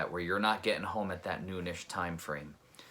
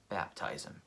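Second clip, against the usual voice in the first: softer, whispered inner voice; 2 semitones lower, 5 dB quieter than usual. Retold or imitated. Hearing God's answer by the road, whispered. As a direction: breathe it like a quiet inner prompting.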